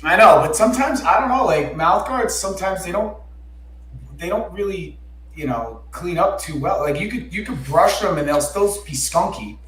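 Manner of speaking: usual speaking voice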